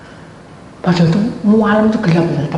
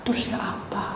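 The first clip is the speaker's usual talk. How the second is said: whisper; 11 dB quieter than usual. Retold or imitated. Man's whispered reply retold.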